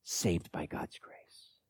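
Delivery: soft, hushed and slow on the last words; quiet confession. Acted. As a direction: drop almost to a whisper to confess it. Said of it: "and he says it this way".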